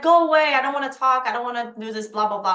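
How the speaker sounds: high, loud mock snap; a hammed-up irritated go away; imitating angry client. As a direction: mimic her slamming the door on you. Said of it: "she was like".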